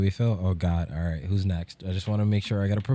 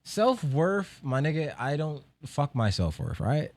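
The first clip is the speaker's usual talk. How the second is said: high; 7 semitones higher, slower than usual. Real, not acted. Mocks topic of self-worth.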